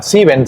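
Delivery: "Sieben" said SEE-ben, IE as a long i; "Sieben" with ie merged into one ee; silent first E. Shown as a demonstration. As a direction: say "Sieben" without sounding the first e. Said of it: "se pronuncia como si no estuviera esa primera E".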